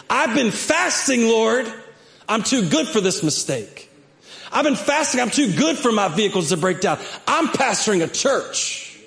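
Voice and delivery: mock entitled prayer. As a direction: boast to God as if you deserve better. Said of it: "how many times we prayed".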